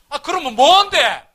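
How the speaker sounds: demanding an answer, stunned; shocked demand. Retold or imitated. Husband stunned at his wife's confession, loud shocked demand.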